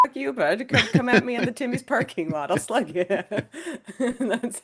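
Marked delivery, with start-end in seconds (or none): 0.1-3.0 a hint of a rough hockey-rink tough; lightly voiced brawler picking a fight; tough Canadian threat. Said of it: "We just go".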